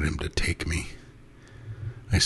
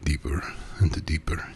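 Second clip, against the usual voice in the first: hypnotic whisper. A narrator's reading. Master hypnotizing his pet, whispering. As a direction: lull him under, whispering. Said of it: "His voice took on its hypnotic cadence".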